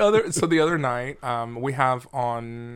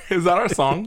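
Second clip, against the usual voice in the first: higher and louder, delighted; light up at the idea; excited; 6 semitones higher, 7 dB louder than usual. Real, not acted. Jokey excited question.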